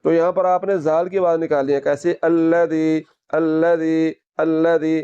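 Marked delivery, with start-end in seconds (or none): 2.2-5.0 tongue-tip dh in "अल्लज़ी", no whistle; no whistling. Shown as a demonstration. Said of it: "सीटी की आवाज़ नहीं निकल रही".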